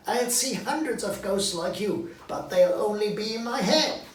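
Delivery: nervous Scrooge. Acted.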